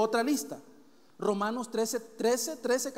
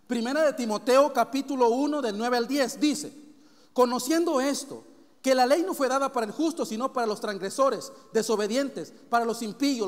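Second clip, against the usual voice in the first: scripture reading; 5 dB louder than usual. Real, not acted. Reads scripture list.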